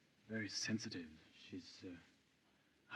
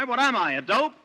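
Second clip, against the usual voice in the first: higher, louder indignant protest; exasperated; 12 semitones higher, 5 dB louder than usual. Acted. Nick protesting to his wife, higher and louder. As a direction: protest he's no fool.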